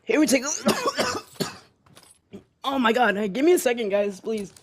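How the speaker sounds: choking on water, coughing; recovering from water down the wrong pipe. Real, not acted. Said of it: "I went down the wrong pipe".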